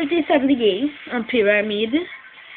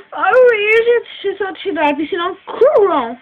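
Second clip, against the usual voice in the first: out of breath; 3 semitones higher than usual. Acted. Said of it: "tu es tout essoufflée".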